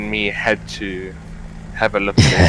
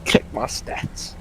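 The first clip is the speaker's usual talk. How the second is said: boastful mock quote; 5 dB quieter, slower than usual. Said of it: "always have to boast and then say".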